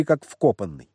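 usual speaking voice

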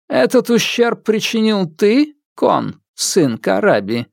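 stern widow. Acted. Widow questions ghost.

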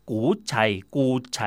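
กูไฉ said the Teochew way, koo-chai with a ch-sound; ออกเสียงกูไฉแบบแต้จิ๋ว; Teochew pronunciation. Shown as a demonstration. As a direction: say กูไฉ as a Teochew speaker would. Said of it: "คนจีนแต้จิ๋วที่รู้ดีเขาบอกไม่ใช่ขนมกุยช่าย".

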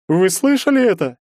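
loud, high falsetto outcry; falsetto wailing. A narrator's reading. Bully appealing to onlookers, wailing in falsetto. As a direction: wail to the crowd in falsetto. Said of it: "фальцетом заголосил тот".

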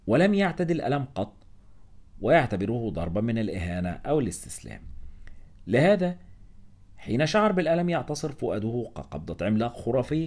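ordinary delivery

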